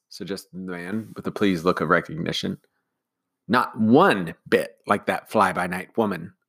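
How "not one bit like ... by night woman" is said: slow, sniffy nanny put-down; sniffy disdain. Acted. Nanny scorning Mary Poppins, slow and sniffy. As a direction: look down your nose at her. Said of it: "Nanny said with a sniff".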